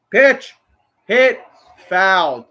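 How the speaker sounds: high, loud one-word bursts; excited live call. Real, not acted. Fan calling a pitch as it happens, high and excited. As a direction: call each moment out sharply as it happens.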